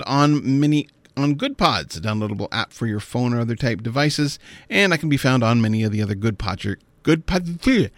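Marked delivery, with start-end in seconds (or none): 4.7-7.9 tripping over words with a stiff mouth; stumbling, mouth numb and clumsy; mouth not working right. Real, not acted. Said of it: "my mouth doesn't work quite right this morning".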